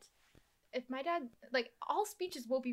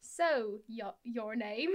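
put-on Cockney accent; 4 semitones lower, much slower than usual. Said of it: "the Cockney accent".

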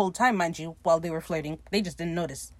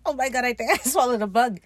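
higher-pitched retold freak-out; mock alarm; 5 semitones higher, 4 dB louder, faster than usual. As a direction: imitate someone mildly freaking out. Retold reaction to swallowing a bug.

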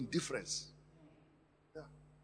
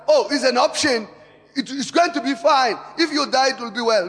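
mock careless attitude; 7 semitones higher, 12 dB louder than usual. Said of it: "it's not like".

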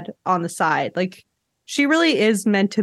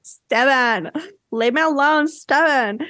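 mock upset girl; 5 semitones higher, slower than usual. Voicing Kristen in the fight.

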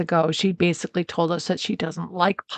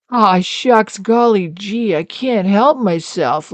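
aw shucks bumpkin; slower than usual. Retold or imitated. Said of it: "saying to her, like".

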